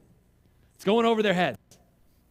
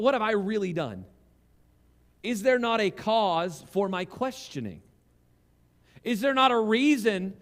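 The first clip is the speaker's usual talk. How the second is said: exasperated pleading; 4 semitones higher than usual. Retold or imitated. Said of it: "he's asking his brother".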